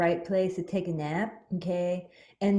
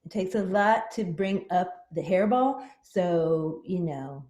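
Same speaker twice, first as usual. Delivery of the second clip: psychic cat voice. Acted. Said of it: "she is the very special Maya, the Psychic Kitty".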